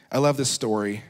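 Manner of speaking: a bit winded from running; breathless between phrases; out of breath. Real, not acted. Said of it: "Let me catch my breath".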